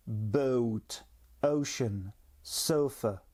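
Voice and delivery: "Boat", "ocean", "sofa" with a light E sliding into O; gliding English vowel. Shown as a demonstration. Teacher repeating examples for learners, light glide in "Boat", "ocean", "sofa". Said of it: "ne pas trop appuyer quand même sur le E".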